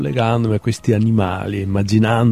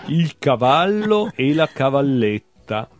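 measured literary recital with lifted titles; poetry reading. Acted. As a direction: read short animal poems, letting each ending drop away. Reads own poems aloud. (lettura poetica recitata)

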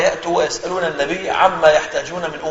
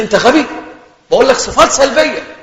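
impatient mock yell, higher and louder; angry teacher; 6 semitones higher, 5 dB louder than usual. Teacher berating the student in theology class, exasperated yell. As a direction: imitate a teacher losing patience.

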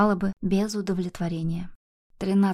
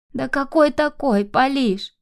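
higher, slow tearful cry; grandmother bursting into tears; 6 semitones higher, 4 dB louder, slower than usual. Acted. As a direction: plead through sudden tears. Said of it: "заплакала вдруг бабушка".

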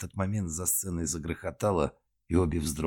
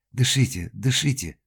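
loud urgent repeat; shout; 6 semitones higher, 5 dB louder than usual. Acted. Lionella shouting at the choking woman, urgent. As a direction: urge her to breathe. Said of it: "крикнула Лионелла".

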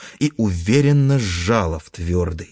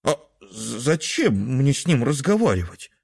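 put-on disappointed child; 4 semitones higher than usual. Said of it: "Суслик был немножко разочарован".

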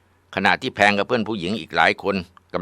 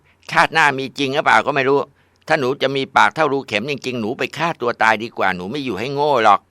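defiant retort; 7 semitones higher than usual. Acted. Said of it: "ผลที่ได้ตอบกลับมาก็คือ".

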